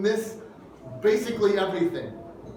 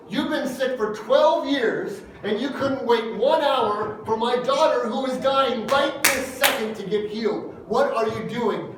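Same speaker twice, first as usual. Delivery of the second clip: imitating rage; 3 semitones higher than usual. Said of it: "my rage is going off the Richter scale".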